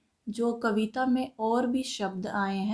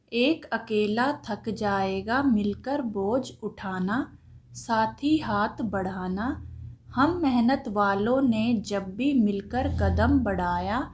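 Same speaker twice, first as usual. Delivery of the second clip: poem recitation. Shown as a demonstration. Teacher recites the lesson poem.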